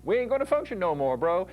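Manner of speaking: defiant striker, a little hammed up; tough guy voice. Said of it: "they say".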